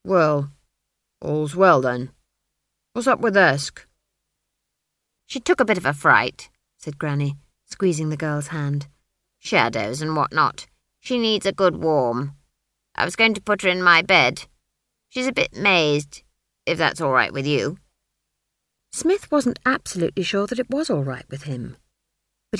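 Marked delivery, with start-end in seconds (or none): 0.0-3.9 gruff blacksmith. Acted. Smith voiced. 5.2-17.8 put-on brisk old witch. Granny voiced.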